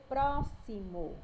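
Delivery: "próximo" slowly as pró, xi, mo; one syllable at a time. Shown as a demonstration. Teacher showing three syllables, "próximo" one by one. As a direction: give each syllable of "próximo" its own beat. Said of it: "eu falo cada sílaba".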